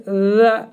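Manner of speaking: "र" as a th-like sound made between the teeth; interdental sound. Shown as a demonstration. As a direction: put the tongue between the teeth for "र". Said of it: "दोनों दांतों के दरमियान".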